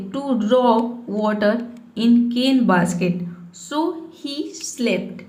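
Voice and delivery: slow, careful word-by-word reading; slow reading aloud. Shown as a demonstration. Teacher reading an English story to students, slowly. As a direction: read it out slowly for learners. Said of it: "reads English story slowly".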